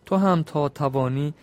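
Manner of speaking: measured, rhythmic reading of Persian epic verse; epic verse recitation. Acted. Storyteller reciting the epic's couplets to his listeners, rhythmic. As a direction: chant the couplets with a steady beat.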